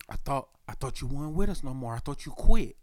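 a bit fast, mock-wounded girlfriend voice; lightly imitating a clingy girlfriend. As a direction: play the hurt girlfriend lightly. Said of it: "he started sounding like a girlfriend".

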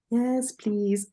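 lightly imitated obnoxious politeness; slightly stretched mock-polite reply; a hint of an annoying boss voice; Michael Scott. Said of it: "in the Michael Scott voice".

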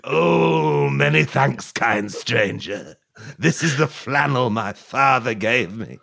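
lightly voiced parched man; grateful mock-tragic whimper; dry man voice. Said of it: "I'll be the dry man".

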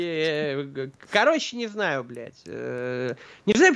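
usual speaking voice

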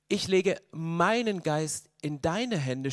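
slow, hushed prayerful plea. Shown as a demonstration. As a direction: pray each word slowly into God's hands. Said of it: "Er betet und sagt". (langsames, inniges Gebet)

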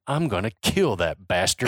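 goon's threat retold in a Southern accent. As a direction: play the thug in a Southern accent. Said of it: "he doesn't say it in a Southern accent".

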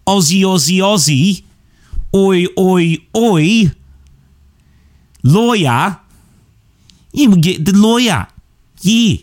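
high, chanting attempt at Aussie; Australian accent. Shown as a demonstration. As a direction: have another go at a hammy Australian accent. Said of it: "Let's try one more time".

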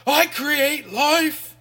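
high, slow hammed-up screech. Retelling the villain's rant to friends, as a high hammed-up screech. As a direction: howl it like a madman, drawn out and laughing. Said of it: "Balaam just screeches".

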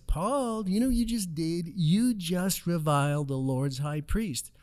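lightly voiced shocked elder calling Paul out; accusing council member. Council member scolds Paul in story.

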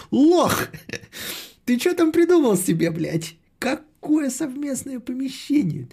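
high squeaky furious rant; злой писклявый голос. Acted. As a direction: shriek the insults in a put-on voice. Passionate angry tirade at the chat. (визгливая злая тирада)

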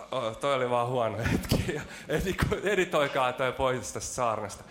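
chuckling through a slip; sheepish laugh over the fumbled joke; laughing at himself. Real, not acted. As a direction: laugh it off and ask to cut it. Laughs at his own flub.

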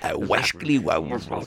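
lightly voiced gruff naturalist; David Bellamy impression. Host starting his Bellamy impression, lightly voiced. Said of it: "Let's do his voice".

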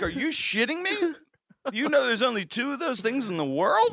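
high-pitched, incredulous retort; exasperated mock protest; retold outrage. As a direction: replay the argument in disbelief, voice way up. Acted argument with wife over discarded gift.

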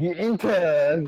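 very slow, loud hammy "Guten Tag"; mock German greeting. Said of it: "Guten Hagen".

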